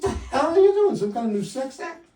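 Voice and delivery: high, loud startled yelp; startled outburst. Retold or imitated. Husband startled in bed yells at wife, high and loud. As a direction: blurt it out in shock.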